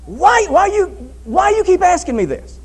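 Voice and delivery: loud, high, exasperated outburst; agitated. Acted. Peter protesting to the Lord's repeated question, agitated. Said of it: "Peter got agitated about this".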